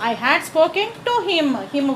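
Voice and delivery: very slow, word by word; slow dictation. Shown as a demonstration. Teacher to students, slow dictation. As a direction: spell it out slowly for students.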